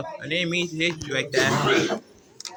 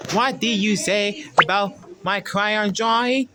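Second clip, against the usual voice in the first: louder, higher accusing demand; angry challenge; 5 semitones higher, 4 dB louder than usual. Acted. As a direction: confront them over the insult. Toy angry about insulted drawing.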